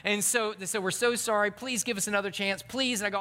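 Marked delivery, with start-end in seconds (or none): 0.8-3.0 higher-pitched mock begging; beg, lifting the final please; pleading apology. Buddies asking dropped friend for another chance, pleading.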